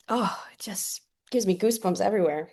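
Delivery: awed whisper, no voice at all. Real, not acted. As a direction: breathe it out, moved to goosebumps. Moved, speaking of goosebumps.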